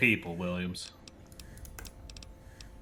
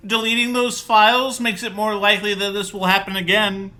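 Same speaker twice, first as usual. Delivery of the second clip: high, loud put-on nerd; 9 semitones higher, 7 dB louder than usual. Player reading dialogue option to scientist, nerd voice. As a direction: pitch it way up like a lecturing nerd. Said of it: "That's just my nerd voice".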